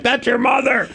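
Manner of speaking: disbelief. Retold or imitated. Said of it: "And I'm like".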